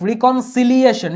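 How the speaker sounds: رিকনসিলিয়েশন said slowly, syllable by syllable; slow spelled-out word. Shown as a demonstration. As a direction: spell out রিকনসিলিয়েশন slowly for the class. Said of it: "রিকনসিলিয়েশন না কিন্তু".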